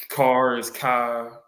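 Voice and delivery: slow demo of how they say CAR; CAR drawn out with A and R run together; imitated Baltimore pronunciation. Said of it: "A and R words is all together".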